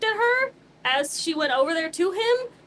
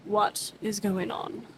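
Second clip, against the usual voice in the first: slow pointed question; 4 semitones lower, 4 dB quieter, much slower than usual. Acted. Arminius pressing his friend, slow and pointed. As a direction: drag each word out, pressing hard.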